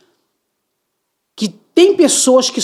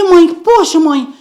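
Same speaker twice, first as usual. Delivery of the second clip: son protesting; 8 semitones higher, 5 dB louder, slower than usual. Retold or imitated.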